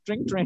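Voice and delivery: spoken phone ring. Pretend. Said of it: "phone उठाइए ma'am".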